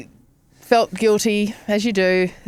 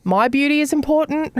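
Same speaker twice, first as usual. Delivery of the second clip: mock vain; 6 semitones higher than usual. Real, not acted. Joking vanity claim.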